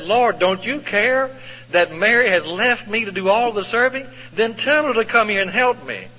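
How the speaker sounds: high, exasperated complaint to the Lord; irritated Martha. Retold or imitated. Busy Martha complaining to Jesus, high and exasperated. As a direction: whine it as a put-upon sister.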